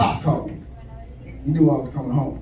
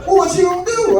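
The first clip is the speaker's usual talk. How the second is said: put-on drunk dad voice; 7 semitones higher than usual. Drunk father on the phone greeting his son home, raised and loose. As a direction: sound like dad after a few drinks. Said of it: "turned into Richard Pryor".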